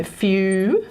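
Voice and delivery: "fusion" slowly broken as few... zhun; ZH sound demo. Shown as a demonstration. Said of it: "it's the zh sound".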